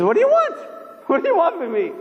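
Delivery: high startled panic, jumping up in pitch; a jolted sleeper's scared demand; frightened cry. Retold or imitated. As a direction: yelp of fright at the angel. Man wakes to angel of death.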